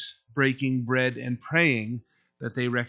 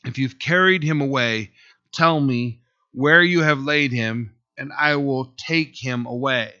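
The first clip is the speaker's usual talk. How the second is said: louder, earnest plea to the gardener; pleading Mary; 5 dB louder than usual. Acted. Grieving Mary begs the supposed gardener, loud plea. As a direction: beg him to tell where the body is. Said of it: "said to him".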